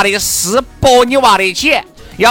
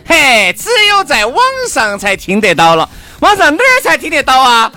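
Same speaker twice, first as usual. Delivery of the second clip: self Q&A hype voice; 6 semitones higher than usual. Acted. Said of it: "你看我这种自问自答的包装".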